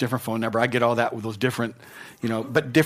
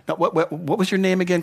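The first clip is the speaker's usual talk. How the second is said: casual, a bit higher, as if you forgot a name; mock forgetful; 4 semitones higher than usual. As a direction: play someone fumbling for a name. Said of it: "isn't like".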